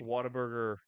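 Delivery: "Whataburger" as /wɑtə˞bə˞ɡə˞/, with an open "Wha"; local pronunciation. Shown as a demonstration. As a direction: teach "Whataburger" with an open "Wha" and r-coloured endings. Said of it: "That's how you say it".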